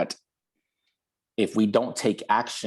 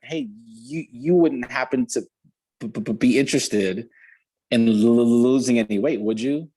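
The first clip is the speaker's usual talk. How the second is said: nervous stammering ask; 4 dB louder than usual. Retold or imitated. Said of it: "She was terrified to call this woman".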